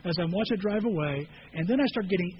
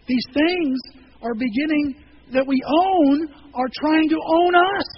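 much higher and louder, slowing at the end; preaching build; 7 semitones higher, 9 dB louder, slower than usual. Real, not acted. Pastor warning the congregation, rising to a loud slow climax. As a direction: build to a pulpit cry.

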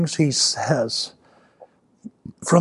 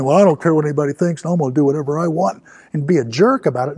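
mock jerk; 3 dB louder, faster than usual. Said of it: "being a jerk and saying".

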